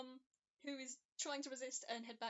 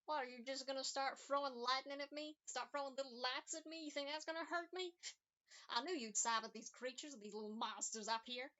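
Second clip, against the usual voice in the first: sneering; 2 semitones higher than usual. Acted. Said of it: "you hear the sneer in their voice".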